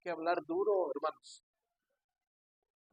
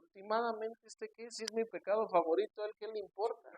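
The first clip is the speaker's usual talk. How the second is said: higher-pitched, mock-indignant complaint; retold indignation; 4 semitones higher than usual. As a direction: imitate an offended churchgoer grumbling in a higher voice. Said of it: "a mí me dio mucho coraje".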